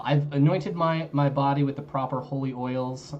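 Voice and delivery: speaking up so chat hears. Real, not acted. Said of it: "Let me know if I'm still quiet".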